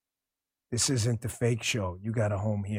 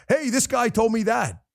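mock tattletale; 12 semitones higher than usual. Mocking a blabbing host.

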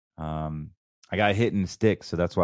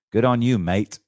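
Australian twang, louder; louder, in a put-on Australian accent; light Australian accent on a louder line; Aussie phrase; 3 semitones higher, 6 dB louder than usual. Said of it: "as they say in the down south".

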